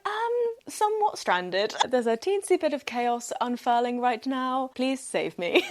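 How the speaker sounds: high, hammed-up helpless plea; hammed-up plea to a friend for rescue; mock damsel plea. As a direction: play the stranded damsel for laughs.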